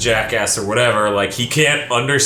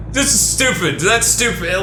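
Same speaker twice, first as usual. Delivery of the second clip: dismissive tone; 4 semitones higher than usual. Retold or imitated. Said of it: "with this really dismissive tone".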